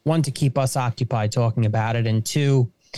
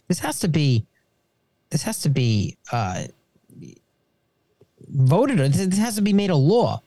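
stumbling, restarting in aggravation; tongue-tied; 3 semitones higher than usual. Real, not acted. Guest venting to the hosts about loan forgiveness, tongue-tied. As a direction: trip over the words, halting with pauses. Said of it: "I'm a little tongue-tied right now".

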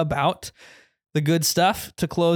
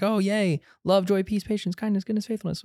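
mock cheer; 6 semitones higher than usual. Mocking Christians' cheerful reaction.

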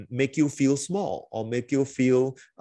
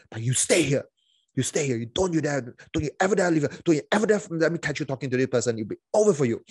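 harsh threatening parent; 2 semitones higher, much faster than usual. Retold or imitated. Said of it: "suddenly it can flip".

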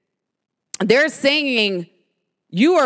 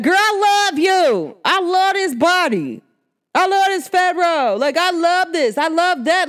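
self-loving mirror talk; 6 semitones higher than usual. Acted. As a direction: gush to your own reflection. Talking to herself in the mirror.

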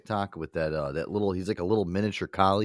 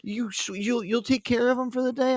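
neighbor's request; 12 semitones higher than usual. Retold or imitated. Neighbor quoted asking a favor.

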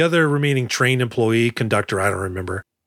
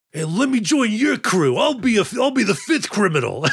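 high squeaky rat voice; high cartoon rat pleading to join the crew; talking rat; 8 semitones higher than usual. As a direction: play a scrappy subway rat asking to join. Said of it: "I thought he would have been like".

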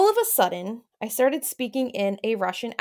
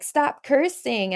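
higher, drawn-out motherly telling-off; imitated scolding mom; 4 semitones higher, much slower than usual. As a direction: lightly mimic a mom's slow scolding. Mom scolding her as a child.

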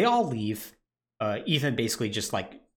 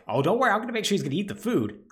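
gleeful Jack; 8 semitones higher, much faster than usual. Retold or imitated. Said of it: "Jack's like".

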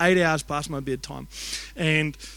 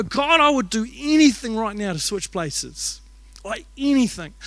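higher, earnest plea to God; retold desperate plea; 3 semitones higher, 3 dB louder than usual. Father begs God to take his sick son's place, retold desperate plea. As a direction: re-enact a father pleading, stretching the words.

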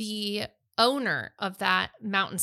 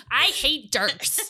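"I hate Dirks" laughed out high and slow; laughing; 9 semitones higher, 4 dB louder, slower than usual. Real, not acted. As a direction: squeal it through real laughter. Laughing banter about book copies.

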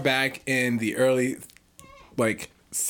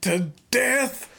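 sentence him like a frontier sheriff; cowboy king; 7 semitones higher than usual. Pretend. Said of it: "I'm a cowboy king".

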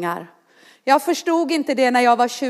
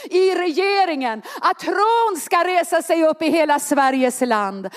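raised, ringing proclamation of faith; prophetic declaration; 5 semitones higher than usual. Acted. Preacher declaring faith rising over Sweden, full prophetic proclamation.

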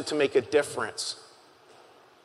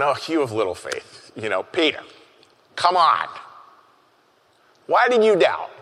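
gentle smiling Jesus. Shown as a demonstration. Jesus grinning at sinking Peter, gently teasing. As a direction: reassure Peter like a grinning friend. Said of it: "read it with a smile".

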